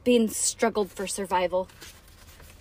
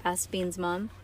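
plain reading voice

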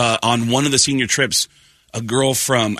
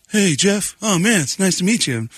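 overly friendly; 8 semitones higher than usual. Retold or imitated. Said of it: "And I go".

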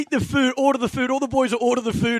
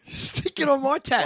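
mock cheeky order; slower than usual. Mocking the teammates' line.

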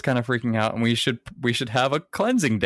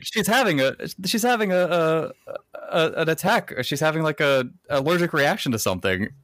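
higher-pitched, stammering mock alarm; mock panic; 6 semitones higher than usual. Onlookers diagnose the choking girl, mock panicked. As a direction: act out flustered onlookers hunting for the word.

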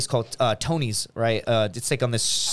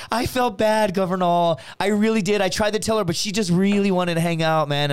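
lightly voiced, higher-pitched excuse; imitated apologetic friend; 4 semitones higher than usual. Friend explaining her choice to him, lightly imitated voice. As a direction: plead it in a lightly put-on voice.

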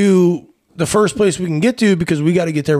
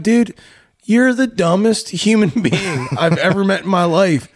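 high, disbelieving jab; mocking exasperation; 5 semitones higher than usual. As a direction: scoff at him, half laughing. Retold argument insulting his friend.

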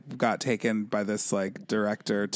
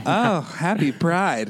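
laughing; 5 semitones higher, 4 dB louder, slower than usual. Real, not acted. Laughing greeting.

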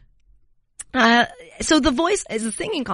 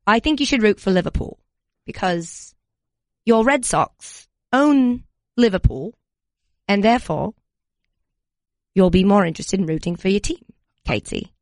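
put-on British accent. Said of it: "Did I lose it halfway through?".

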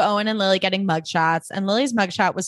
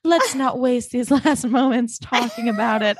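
lightly voiced wistful Blair; 3 semitones higher than usual. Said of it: "And she's like".

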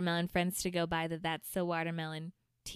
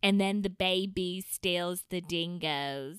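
slow, barely-there attempt at an Australian accent; slower than usual. Podcast host joking about kangaroos, slow faint mock Australian accent. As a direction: drag the words out in a half-hearted Australian accent. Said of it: "I think I sounded really Australian right there".

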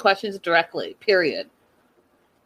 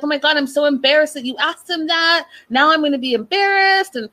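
mock attitude; 5 semitones higher than usual. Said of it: "she got a little attitude".

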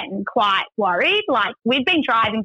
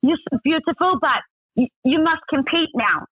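higher-pitched, gushing mock driver; imitated Russian driver; 6 semitones higher than usual. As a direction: play the driver relenting with flattery. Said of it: "he's like".

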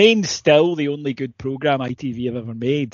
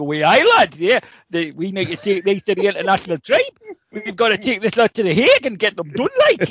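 mock-indignant Geordie, a little raised; Michael, Geordie voice; 5 semitones higher than usual. Podcaster mimics a fat Geordie fan suddenly turning political, hammed-up Geordie accent. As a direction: play up a broad Geordie local. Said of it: "a new character on the pod, uh, Michael from the Linton Travel Tavern".

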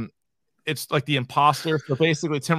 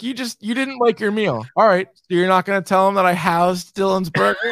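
laughing quote. Retold or imitated. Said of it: "They're like".

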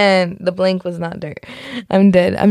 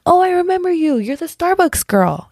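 high-pitched, delighted mock greeting; gushy imitation, easing down in pitch; gushing recognition; 10 semitones higher than usual. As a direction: act out suddenly recognizing an acquaintance. Acts out recognizing an acquaintance.

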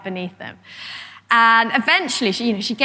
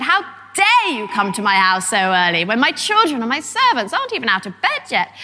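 outraged lady. Retold or imitated. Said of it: "this barrage of damish outrage".

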